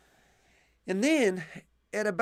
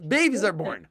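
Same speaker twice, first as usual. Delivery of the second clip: mock outrage; 7 semitones higher, 5 dB louder than usual. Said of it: "people go crazy, say".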